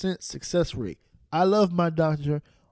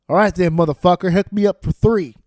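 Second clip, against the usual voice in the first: fast, louder pushy demand; mock loud demand; 5 dB louder than usual. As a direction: boss the receptionist around. Retold phone call punchline.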